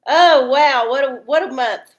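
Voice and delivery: loud, high oh wow; amazed at how fast October went; surprised wow. Real, not acted. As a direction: exclaim in mock amazement. Exclaiming at the month passing.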